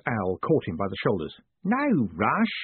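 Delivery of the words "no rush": high, swooping cheery greeting; cheerful. A narrator's reading. Mad Owl greeting Moist at the top, cheerful high voice. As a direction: sing out the reassurance cheerily. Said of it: "he said cheerfully".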